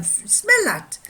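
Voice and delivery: put-on high, loud French-accented command. Watchmaker confronting the complaining customers, French accent. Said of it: "he held it to them".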